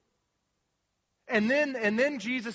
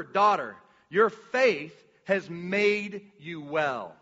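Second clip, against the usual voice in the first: gentle Jesus voice; 3 dB louder, much slower than usual. Retold or imitated. Preacher voicing Jesus to the woman, slow and tender. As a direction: speak it slowly like a loving savior.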